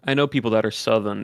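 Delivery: sliding into a Southern accent on "Southern"; slipped Southern accent. Shown as a demonstration. Example sentence for co-host, slipping into Southern accent. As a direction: let "Southern" lose its R, Southern accent. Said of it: "you slipped into it right there".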